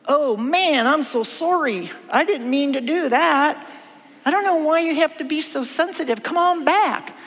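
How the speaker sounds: mock apology. Wife's mock apology to husband.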